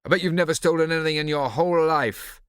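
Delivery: put-on loud accusing boy; angry. A narrator's reading. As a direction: hurl the accusation angrily. Prosper angrily accusing.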